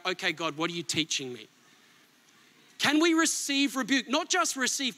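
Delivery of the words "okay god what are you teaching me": humble, quiet surrender. Retold or imitated. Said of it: "we take it on and we go".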